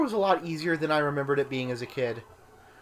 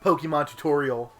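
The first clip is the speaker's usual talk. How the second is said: youtuber intro voice; 5 dB louder than usual. Pretend.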